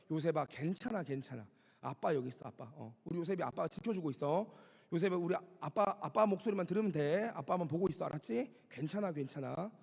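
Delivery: tender, retold fatherly comfort; calm imitated reassurance; reassuring father. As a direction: gently soothe a frightened child, as the father did. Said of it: "아버지의 그윽한 음성이 들려지고".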